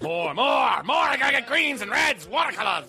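imagined painter caller. Pretend. Painter exclaiming while phoning in.

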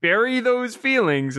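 wise mentor's advice. Retold or imitated. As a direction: impart it like an old mentor. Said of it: "that Ben told him".

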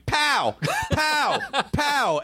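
high-pitched, repeated calls; imitated older woman caller. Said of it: "this woman going".

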